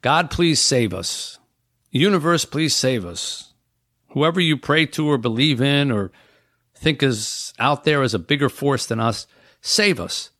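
mock desperate prayer. Imitating castaways praying for rescue.

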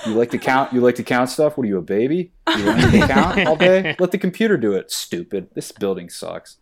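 high, loud, mocking insults; mock rant at bank. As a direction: rant at the bank teller like a bully, laughing. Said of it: "I'd be like".

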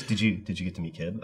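imitating her, soft and low; a tentative, halting little ask; hushed, hesitant question. Retold repeat of her timid question.

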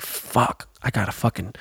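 soft, breathy muttered curse to himself; muttered groan. Retold or imitated. Dad realizing family day, muttered groan. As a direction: grumble it under your breath. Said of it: "And I'm like".

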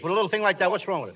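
sulky mumble. Acted. Costello sulking at Ken after his sneeze, soft grumble. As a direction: mutter it under your breath.

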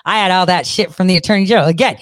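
ordinary talk, nothing marked

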